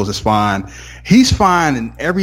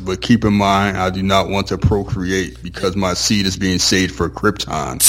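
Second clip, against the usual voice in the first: imitating John Cena; 5 semitones lower than usual. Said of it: "how he sounds when he's on that show".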